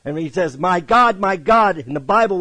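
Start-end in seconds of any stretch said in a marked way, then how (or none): 0.6-1.8 imitating an anguished cry, raised and louder. Preacher voicing Jesus' cry to his God, crying out in anguish. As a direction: preach the cry high and loud. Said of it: "as he's crying out".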